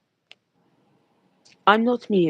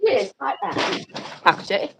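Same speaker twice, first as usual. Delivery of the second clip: put-on British accent; 4 dB quieter than usual. Shown as a demonstration. Showing off to listeners, a lightly put-on British accent. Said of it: "very good at making a British accent".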